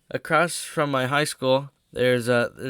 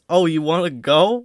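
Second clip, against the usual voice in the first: raised, louder mock challenge; loud retold challenge; 4 semitones higher, 8 dB louder than usual. Guy calls out from his car window, loud mock challenge. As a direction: imitate a guy calling someone out.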